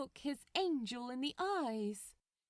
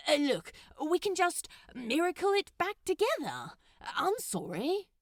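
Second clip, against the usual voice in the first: fast, louder, higher pleading; hurried Crowley; 7 semitones higher, 6 dB louder than usual. Acted. Crowley hurriedly offering to miracle the tree back, louder and fast. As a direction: rush to fix it.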